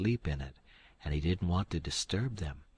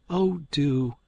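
higher, louder eager aunt; Aunt Sally urging; 7 semitones higher, 7 dB louder than usual. Acted. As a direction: press the guest warmly.

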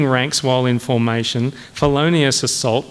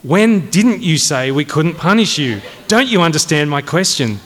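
higher, impatient interrogation; exasperated questioning; 3 semitones higher, 3 dB louder than usual. Acted. Colonel repeating his question to a cadet, exasperated. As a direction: press an absurd question as if obvious.

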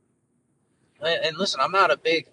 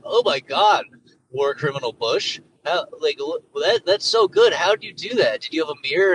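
amazed talk-show host, pitched up and louder in bursts; Jimmy Kimmel; 2 semitones higher, 4 dB louder than usual. Acted. Host marvels at war criminal Bush's self-portrait, mock amazement. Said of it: "Jimmy Kimmel's like".

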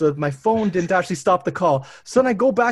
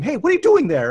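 calling out; 8 semitones higher, 5 dB louder, faster than usual. Retold or imitated. Wife calling out at toddler.

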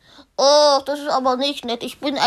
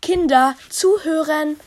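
raised, higher teacher's call; calling to order; 5 semitones higher, 4 dB louder than usual. Acted. Museum guide to chattering class, calling them to order. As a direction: call the children firmly to attention.

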